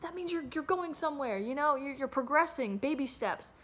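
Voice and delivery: high, bright mocking imitation of people who say a job means progress; mock voice of other people. Venting about a job that goes nowhere, imitating people in a high mocking voice. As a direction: parrot them in a high sing-song. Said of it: "people be like".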